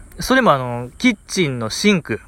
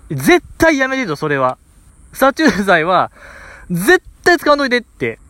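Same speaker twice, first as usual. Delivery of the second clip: higher pitched mock yell of a panicked mother; imitating mom's yell; 5 semitones higher than usual. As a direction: shriek the mother's protest back, half in jest. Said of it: "一番声張り上げて言ってたんですよ". (母親の叫びをまねて高い声で)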